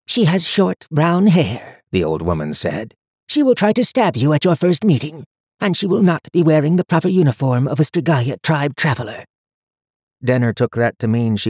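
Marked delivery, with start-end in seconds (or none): 0.1-1.8 put-on high, cold voice of an old seer; stern old woman. A narrator's reading. High Watcher voiced in story. 3.3-9.2 put-on high, cold voice of an old seer; stern old woman. A narrator's reading. High Watcher voiced in story.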